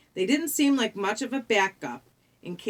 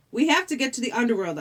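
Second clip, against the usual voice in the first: quick, higher, insistent demand; 4 semitones higher, 4 dB louder, faster than usual. Acted. Percy insists to the ferryman, urgent and insistent. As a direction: press the point urgently and fast. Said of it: "I insisted".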